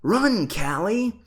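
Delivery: high, loud urgent cry; boy screeching at his sister to run; screeched. A narrator's reading. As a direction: screech a warning. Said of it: "Ben screeched".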